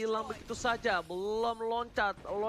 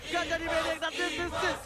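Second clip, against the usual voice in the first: fighting game announcer; 4 semitones higher, much slower than usual. Real, not acted. Caster calls the game-winning moment.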